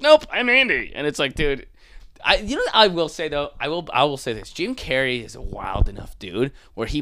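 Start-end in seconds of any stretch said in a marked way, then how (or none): 0.0-0.9 high, loud hammed-up refusal; mock stubborn. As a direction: snap back like a stubborn kid. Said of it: "he's like".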